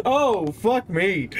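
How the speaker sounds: slow curse through high laughter; laughing curse. Real, not acted. Player recovering from a scare, laughing curse. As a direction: laugh it out, shaken.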